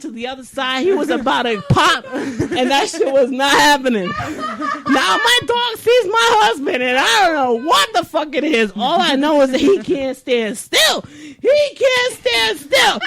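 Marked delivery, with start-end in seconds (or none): 4.1-13.0 laughing. Real, not acted. Laughing high retelling.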